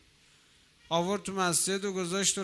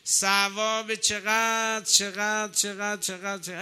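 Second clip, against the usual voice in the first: marvelling exclamation; 4 semitones higher than usual. Real, not acted. Marvelling at the reward.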